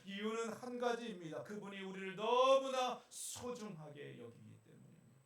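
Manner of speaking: loud, rising fervent sermon; preaching. Acted. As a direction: preach it with full force. Preaching at full force.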